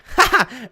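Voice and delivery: high cackling laugh. Shown as a demonstration.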